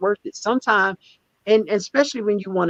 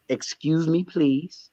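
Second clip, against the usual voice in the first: polite request; 6 dB quieter, much slower than usual. Shown as a demonstration. Showing the way he should have asked, soft polite. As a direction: Excuse me, please. said soft and courteous. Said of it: "the polite way she wanted".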